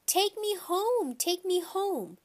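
put-on high, drawn-out wail of a scared little boy; screaming child. A narrator's reading. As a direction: wail it loudly, stretching each word. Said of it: "grabbed onto his mother's leg and screamed".

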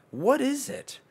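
high cartoon squeak; squeaky high voice. Shown as a demonstration. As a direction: ask it in a tiny squeaky voice. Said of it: "high squeaky repeat".

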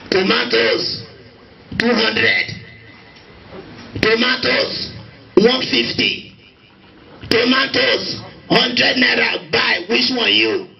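acted market call, slowing at the end; market seller. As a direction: sing out prices like a trader. Market woman calling out prices, acted.

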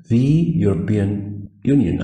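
slow careful repeat. Shown as a demonstration. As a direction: model it again slowly. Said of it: "فلازم أقول the".

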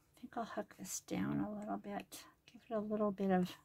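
soft whispered aside. Real, not acted. Crafter showing the page to viewers in a whisper. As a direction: breathe it as a whisper.

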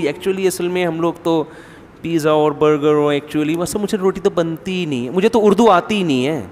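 lightly voiced bride bragging she can't cook; posh modern daughter-in-law. Daughter-in-law boasting to her in-laws, mock posh.

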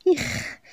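soft, voiceless sound of disgust; disgusted "yuck". A narrator's reading. Customer reacting to the cashier, disgusted. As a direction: let out a breathy ugh.

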